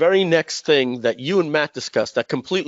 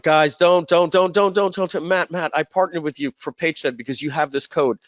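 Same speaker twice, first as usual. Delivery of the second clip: higher, urgent string of don'ts; pleading; 4 semitones higher than usual. Retold or imitated. Begging partners not to scrap the code, urgent pleading. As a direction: beg them to stop, half in panic.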